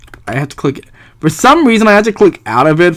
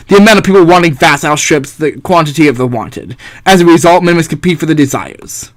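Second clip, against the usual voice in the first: haughty thinker, mildly pompous declaiming; lightly voiced philosopher. Philosopher presents the natural state to the Arbiter, lightly pompous. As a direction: present the theory with a hint of grandeur. Plays Hobbes explaining scarcity.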